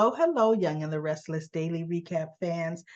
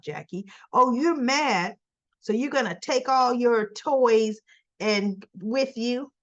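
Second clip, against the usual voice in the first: mock taunting; 3 semitones higher, 4 dB louder than usual. Ashley taunting Jack.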